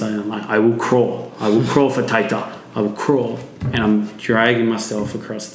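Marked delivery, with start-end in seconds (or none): 0.5-3.4 servant voice. Retold or imitated. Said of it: "servant things".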